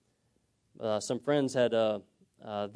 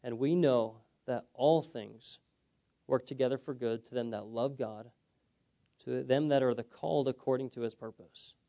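scripture reading. Shown as a demonstration. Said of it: "it says this".

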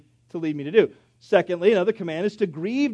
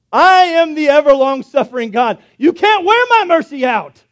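louder, higher grand declaration; proclaiming God; 7 semitones higher, 10 dB louder than usual. Pretend. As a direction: announce endless mercy.

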